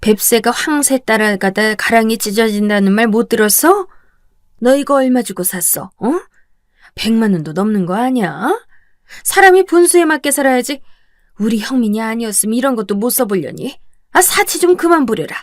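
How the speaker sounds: angry, snapping outburst.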